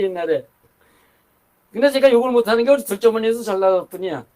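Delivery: ordinary talk, nothing marked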